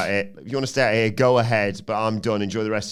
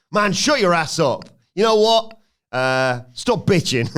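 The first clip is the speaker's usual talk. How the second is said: louder, higher, slow tough-guy snarl; mock angry Fatu; 8 semitones higher, 5 dB louder, slower than usual. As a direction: tell him off like a heavy. Jacob Fatu voiced angrily.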